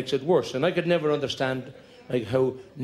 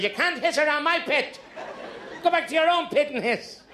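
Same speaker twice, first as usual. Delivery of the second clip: roaring neighbour snake; 12 semitones higher than usual. Acted. Missus Potts roars at snakes.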